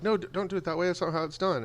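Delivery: a lightly hammed-up protesting parent; parents objecting.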